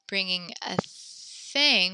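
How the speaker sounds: bringing a THING, drawn out slowly; "bringing a thing" said slowly, weight on "thing"; slow contrast stress. Shown as a demonstration. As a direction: lean on "thing" to set it against a person. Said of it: "different word for bringing a person versus".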